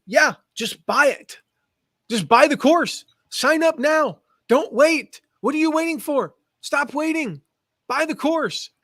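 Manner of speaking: put-on slow, emphatic Southern African accent pushing listeners to buy. Host quoting his Zimbabwean guest's sales advice in her Southern African accent. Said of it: "her really cool, you know, Southern African accent".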